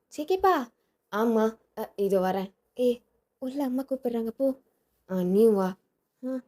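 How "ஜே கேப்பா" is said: calling out. Acted. Wife calling her husband from inside, raised rising call. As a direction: shout it across the house, rising at the end.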